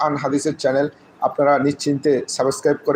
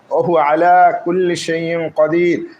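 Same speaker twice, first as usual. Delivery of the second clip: Quran recitation; slower than usual. Acted. Teacher recites the verse again.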